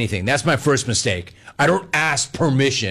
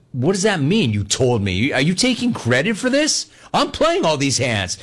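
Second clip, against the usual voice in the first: indignant retort; 2 semitones higher than usual. Retold or imitated. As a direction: push back in disbelief, pitch jumping. Retold quarrel, indignant reply.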